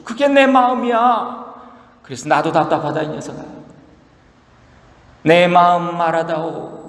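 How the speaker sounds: a touch of a worried parent pleading; tender parent. Acted. God as parent explaining his heart to Job, mild tender plea. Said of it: "하나님 말씀하시기를".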